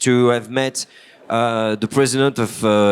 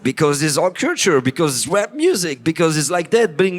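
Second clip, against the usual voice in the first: higher, lively boast about bling; mock proud reply; 4 semitones higher than usual. Retelling his community's answer about big cars, he gives a lightly mocking, proud reply. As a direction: show off the culture lightly. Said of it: "Why you need your big car".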